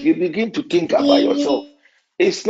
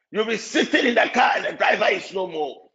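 laughing; 2 semitones higher than usual. Real, not acted. Laughing preacher describing the rapture.

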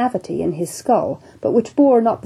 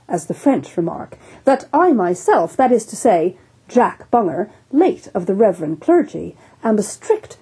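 imperturbable. Acted. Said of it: "said the imperturbable, godly-looking Bunger".

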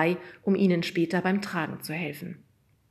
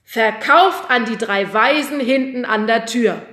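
loud, slow sale declaration; auctioneer call; 5 semitones higher, 11 dB louder than usual. A narrator's reading. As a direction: bang the gavel in voice. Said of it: "rief der Auktionator".

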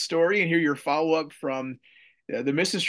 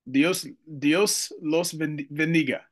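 American accent Spanish. Shown as a demonstration. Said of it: "my gringo accent there".

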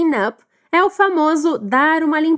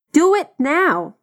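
slow and joined; much slower than usual. Shown as a demonstration. Teacher modelling the joined phrase slowly. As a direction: Do it now whole and very slow.

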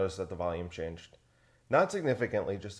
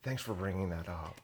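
mock radio host; 7 dB quieter than usual. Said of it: "Terry Gross".

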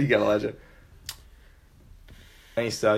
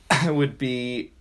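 laughing; 4 semitones higher, much slower than usual. Real, not acted. Laughing while starting an answer.

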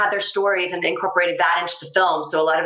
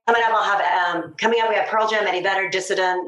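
1990s radio DJ; faster than usual. Shown as a demonstration. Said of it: "Could you do a little sample of you maybe introducing".

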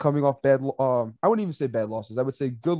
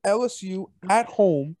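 excited; 6 semitones higher than usual. Acted. Mock-hyped prediction rant.

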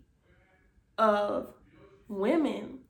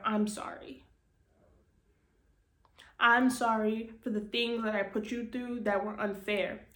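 emotional apology. Real, not acted. Speaking to the little girl inside, tender and emotional. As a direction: apologize gently to your younger self. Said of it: "that gets me emotional".

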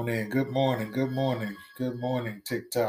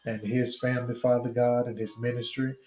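steady fervent prayer cadence. Real, not acted. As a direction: pray aloud over the congregation. Leads an opening prayer.

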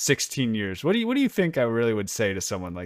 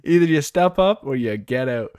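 tough coach yell; 5 semitones higher, 9 dB louder than usual. Pretend. Mock motivational speech to player.

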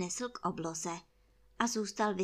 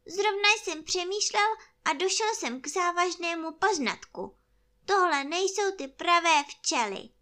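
high, loud bear voice; solemn toy bear; 8 semitones higher, 6 dB louder than usual. Acted. Bear declares these are wrong bees, high earnest voice. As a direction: announce a weighty finding, pitched up. Pooh announces his discovery.

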